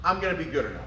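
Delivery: rousing mantra, each phrase punched; upbeat self-talk. Shown as a demonstration. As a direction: talk yourself up with rising energy. Demonstrated positive self-talk.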